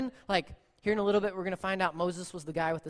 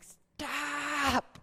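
exasperated stop; 5 semitones higher than usual. Retold or imitated. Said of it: "and you're just like".

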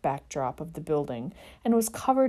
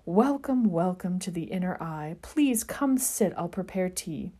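wafting mystical voice. Acted. Tea shop seer greeting the boys, mystical. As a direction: float the words like a seer. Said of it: "a wafting, mystical voice".

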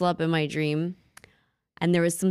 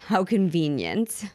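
wry irony; slower than usual. Real, not acted. Wry comment on the story's twist.

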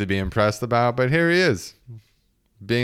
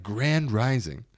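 lofty greeting; 4 semitones higher, slower than usual. Retold or imitated. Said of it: "let's up it a little bit".

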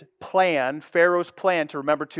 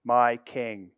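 declaring God; 4 semitones lower, 5 dB quieter than usual. Acted. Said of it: "He declares his purpose and said".

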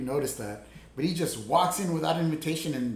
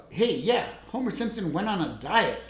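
grating voice; 3 semitones higher than usual. Retold or imitated. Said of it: "A little nasally voice that Lenny has".

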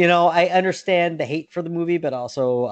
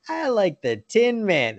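higher mock kid voice; imitating a creepy movie kid; 6 semitones higher than usual. Quoting the kid who creeped him out, high mock child voice. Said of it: "that kid creeped the shit out of me".

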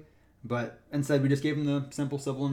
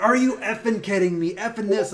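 higher, louder mock outrage; angry swearing; 7 semitones higher, 6 dB louder than usual. Cyclist swearing at the ranger, mock angry and louder. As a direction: act out the cyclist's fury.

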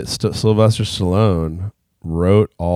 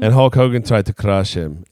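put-on lingering Russian accent. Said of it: "I don't know why I'm talking like this still".

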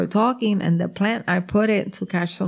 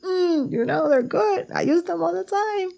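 coy act; 9 semitones higher than usual. Retold or imitated. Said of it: "I'm like".

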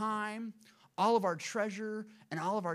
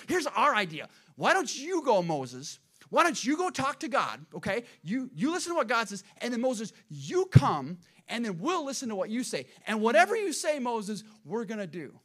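bargaining Israelites; 3 semitones higher, 5 dB louder than usual. Acted. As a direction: lightly play a people talking their leader into it. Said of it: "this is what the children of Israel said".

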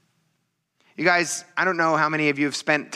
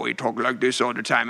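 lightly imitated deep-voiced big man; a hint of a low-talking friend; really low voice; 2 semitones lower than usual. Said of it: "he talked really low".

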